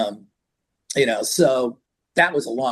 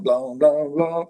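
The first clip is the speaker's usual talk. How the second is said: imitated notes; much slower than usual. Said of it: "you hear these notes going".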